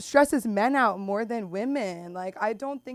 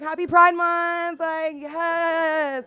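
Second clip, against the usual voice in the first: mock cheery; 8 semitones higher, 6 dB louder, much slower than usual. Cheerful retort to customer.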